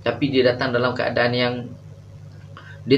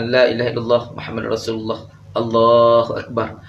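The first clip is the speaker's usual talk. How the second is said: plain recitation. Retold or imitated. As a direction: recite it evenly, the way he reads during treatment. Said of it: "saya baca biasa". (bacaan zikir biasa yang perlahan)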